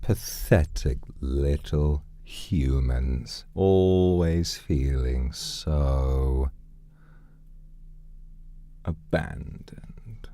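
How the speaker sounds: slow, drawn-out deep villain voice; put-on deep nice-guy voice. Streamer sneering at lonely humans, in a put-on deep voice. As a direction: put on a slow deep voice, savouring each word. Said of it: "sound like I'm ... deep voice".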